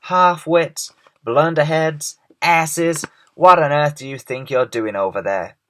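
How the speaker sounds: high, loud string of insults; yelled. A narrator's reading. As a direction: hurl the insults as loud as you can. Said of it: "he yelled".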